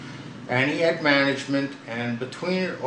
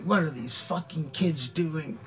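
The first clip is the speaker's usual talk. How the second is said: higher, slow mock-livid quote; 6 semitones higher, 4 dB quieter than usual. Bandmate imitating a livid singer watching kids overrun the set, livid. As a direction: imitate an exasperated rock star, voice pitched up. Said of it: "was just livid".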